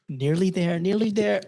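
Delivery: rising, strained Aussie climax voice; jokey Australian moans; mock Australian. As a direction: play an Australian nearing climax, pitch climbing. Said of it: "the speaker's impression of an Australian having sex".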